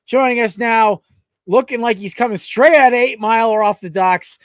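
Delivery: upbeat podcast announcer delivery; sponsor read and intro. Real, not acted. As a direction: read the sponsor, then present the guest.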